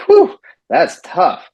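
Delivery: mock-impressed whistle of praise; hyped-up awe. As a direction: pump the kid up with exaggerated wonder. Hyping the injured boy.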